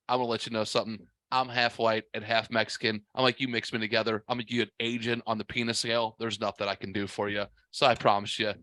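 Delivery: low-pitched, matter-of-fact letdown; deadpan reply. Retold or imitated. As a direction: set her straight in a low voice. Retells own deadpan reply to lady.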